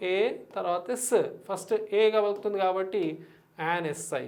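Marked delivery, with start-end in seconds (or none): 0.1-1.1 "ఏ" first, then "ఎస్" as a separate sound. Shown as a demonstration. Teacher showing how to pronounce the letter, sound by sound. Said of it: "ఇది ఎలా పలకాలి మనం".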